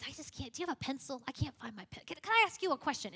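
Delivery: lightly voiced bumbling detective, unassuming; mildly flustered, fumbling through half-finished asides; a hint of a harmless, muddled investigator; Columbo. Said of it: "it was just this unassuming way".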